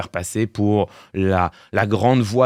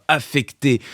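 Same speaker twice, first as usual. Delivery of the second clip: ordinary talk, nothing marked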